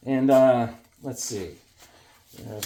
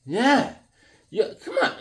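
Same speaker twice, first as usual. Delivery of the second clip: schmoozing host; 6 semitones higher than usual. Pretend. Greeting the Sonia figure from the package, cheesy schmoozing. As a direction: flatter her like a cheesy uncle.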